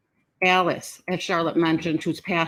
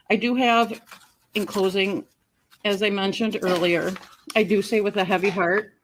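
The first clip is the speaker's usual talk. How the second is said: adrenaline shakes; 3 dB louder than usual. Real, not acted. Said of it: "my hands are shaking".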